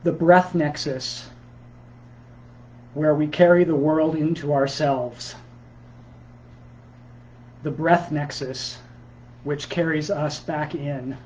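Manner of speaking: measured poem recital with deliberate pauses; poetry reading. Acted. Poet reading new pandemic work to Sunday listeners, measured recital. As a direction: read it as verse, phrase by phrase, pausing between lines. Reads own poem aloud.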